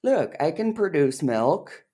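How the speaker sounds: high squeaky begging cow; mock cow voice. Teasing her about the cow clip, squeaky cow voice. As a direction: pitch it way up and beg for milk. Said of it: "you showed, like".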